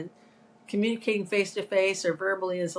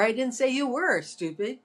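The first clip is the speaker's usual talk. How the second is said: were stressed, a touch higher; 4 semitones higher than usual. Shown as a demonstration. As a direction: lean on were again with a rise. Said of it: "emphasizing all the different words".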